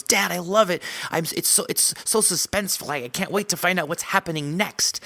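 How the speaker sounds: put-on high, excited little girl voice; a dad doing his daughter's voice; young daughter. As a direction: voice her like an eager kid.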